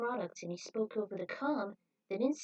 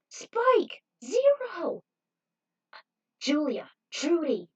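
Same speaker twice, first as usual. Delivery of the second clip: high, loud shout of names; calling out; 7 semitones higher, 9 dB louder, much slower than usual. A narrator's reading. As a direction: yell across to the crew. Calling friends from afar.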